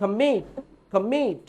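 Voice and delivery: কমিট with the stress on মিট; কমিট said slowly, leaning on মিট; stress demo. Shown as a demonstration. Teacher showing his class the stress of কমিট. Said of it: "যেমন কমিট".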